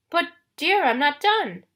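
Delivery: high, pleading fake-bride voice; high disguised protest; falsetto. A narrator's reading. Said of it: "in his falsetto voice".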